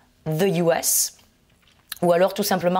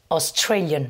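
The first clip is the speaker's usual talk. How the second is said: Australian with TRA stressed; stress on second syllable. Shown as a demonstration. Teacher modelling the nationality, stress on TRA in Australian. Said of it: "et même chose pour".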